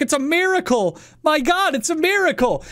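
hammed-up crowd crying out a miracle; mock joyful cry. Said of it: "They're like".

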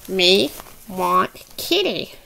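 slow toy-creature voice, a little low; Grogu. Pretend. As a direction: beg slowly as a puppet.

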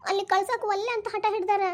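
slow, high weepy whine; acted crying, words drawn out; tearful complaint. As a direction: complain to mother through tears. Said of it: "ಅಳಕ್ ಹೋಗ್ಬೇಡ ಏನೋ".

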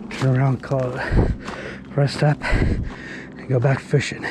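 out of breath from the climb; winded, heavy breathing; breathing hard. Real, not acted. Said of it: "Sorry, I'm breathing hard".

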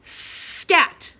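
high, loud Scat; loud storybook shout. Shown as a demonstration. Teacher reading with pre-K kids, loud shout. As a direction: shout it like an exclamation. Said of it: "We say it loud".

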